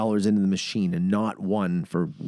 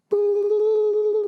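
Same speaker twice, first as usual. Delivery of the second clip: excited boom. Retold or imitated. Jackpot hits.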